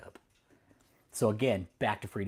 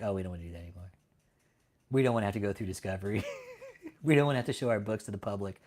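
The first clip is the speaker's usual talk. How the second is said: fast mock-whiny church voice; lightly voiced whiny church; mocking Daystar; faster than usual. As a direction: ridicule their excuse, rattling it off fast. Mocks Daystar avoiding discovery.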